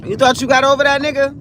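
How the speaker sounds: mock gloating taunt; lightly acted gotcha jeer; taunting heartbreak. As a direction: crow it like a bully who got the last laugh. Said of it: "smack you in your face like".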